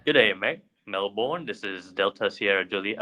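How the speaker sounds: half-hearted attempt at Australian; weak, unconvincing Aussie radio call; bad Australian accent. Shown as a demonstration. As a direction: try Australian, mostly sounding American. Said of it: "That is a terrible one".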